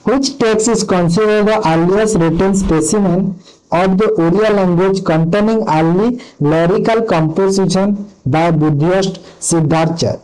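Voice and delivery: slow, careful question read-out; reading a quiz question. Acted. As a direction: read each word out deliberately. Reads quiz question aloud slowly. (ଧୀରେ ଧୀରେ ପ୍ରଶ୍ନ ପଢ଼ିବା)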